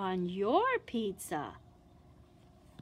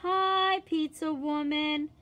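higher, louder bright hello; cheery greeting; 5 semitones higher, 4 dB louder than usual. Acted. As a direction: greet the pizza woman at the door. Greeting at the door.

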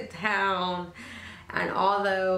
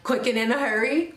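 hyped up; 4 semitones higher, 4 dB louder than usual. Real, not acted. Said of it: "try to hype myself up really fast".

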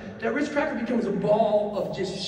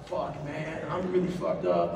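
low, soft, defeated groan of a curse; muttering in weak panic; low quiet despair; 6 semitones lower, 6 dB quieter than usual. Retold or imitated. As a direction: lower and much softer, drained. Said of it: "I'm like".

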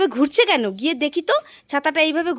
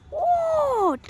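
high, sharp order; sharp command; 13 semitones higher than usual. Acted. Mother ordering her daughter up off the ground, high sharp command. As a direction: snap the child to her feet.

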